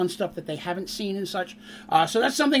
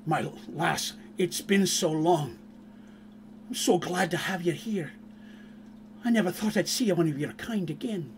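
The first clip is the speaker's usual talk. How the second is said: dwarf paladin; 2 semitones lower, 7 dB quieter than usual. Acted. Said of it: "Fenton, the paladin dwarf".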